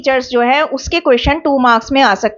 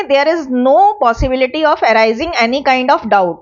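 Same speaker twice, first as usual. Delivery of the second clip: slow dictation; much slower than usual. Shown as a demonstration. Teacher dictates a point slowly.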